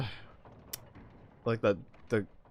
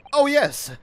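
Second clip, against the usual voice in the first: high, loud burst of realisation; sudden exclamation; 8 dB louder than usual. Acted. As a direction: blurt it out as if just reminded. Suddenly remembers, in game.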